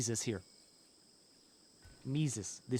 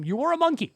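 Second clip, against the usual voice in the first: "were" hit high and loud, the rest falling away; stress on were; 11 semitones higher, 5 dB louder, faster than usual. Shown as a demonstration. Telling the colonist they used to be a monkey, with "were" punched high and loud. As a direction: lean hard on "were" as if it's all in the past. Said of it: "Big emphasis on the word were there".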